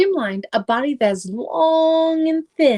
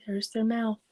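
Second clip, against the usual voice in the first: soft whispered pointing out; 7 dB quieter than usual. Real, not acted. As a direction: whisper it as if sharing a secret. Pointing at picture for kids.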